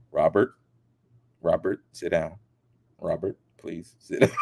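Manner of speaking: a hint of low, firm scolding; scolding interviewer. Interviewer calming a celebrity, lightly voiced scolding. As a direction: talk him down like a child. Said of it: "Like she was scolding a little kid".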